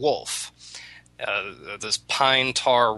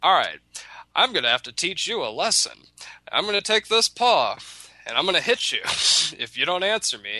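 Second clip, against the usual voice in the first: higher, hammed-up threatening rabbit; mock threat; 7 semitones higher than usual. Rabbit threatens the silent tar wolf, mock angry. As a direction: huff and threaten, half laughing.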